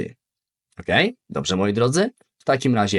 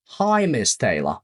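"Hi, Miss Taylor" slower and even; slow clear repeat. Shown as a demonstration. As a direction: spell it out slowly for the class. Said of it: "Przykłady". (powoli i wyraźnie)

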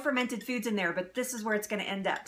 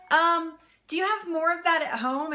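eager asking; 8 semitones higher, 4 dB louder than usual. Retold or imitated. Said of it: "And I was like".

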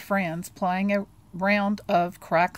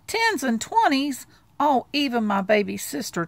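higher, incredulous echo of tens and twenties; groaning disbelief; 6 semitones higher, 4 dB louder than usual. Acted. Charlie Brown to Sally, repeating her money request with a groan. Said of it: "Charlie Brown groaned".

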